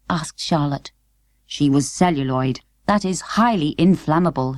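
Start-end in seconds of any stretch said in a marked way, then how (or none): 1.4-4.6 lower, matter-of-fact father; lightly voiced father. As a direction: explain it calmly as a dad. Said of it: "said Father".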